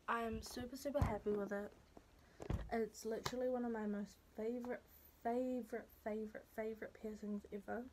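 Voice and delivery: slight lisp from a swollen tongue; talking with a slight lisp. Real, not acted. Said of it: "I'm talking with a little bit of a lisp".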